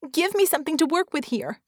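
high, exasperated demand; frustrated mock scream. Vicky demands options from Red, frustrated cry. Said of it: "screamed in frustration".

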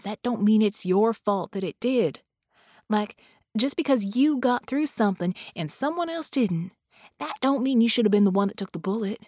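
lightly voiced folksy ghost, earnest; reassuring ghost. Ghost urges grieving friend to stop blaming herself, earnest reassurance. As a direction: press the point home in a light country accent.

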